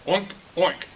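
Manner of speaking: high, loud storybook oink; pig oink. A narrator's reading. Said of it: "grunted the pig".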